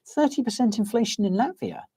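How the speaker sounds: high-pitched incredulous question; real astonishment. Real, not acted. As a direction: break off, pitch jumping up in disbelief. Interrupts himself at shocking figure.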